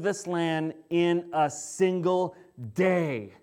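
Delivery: scripture reading. Acted. Reads Zechariah, the Lord's message.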